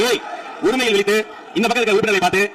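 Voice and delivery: firm censure from the chair; stern rebuke. Real, not acted. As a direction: formally scold the members, with force. Chair condemns members' rude address.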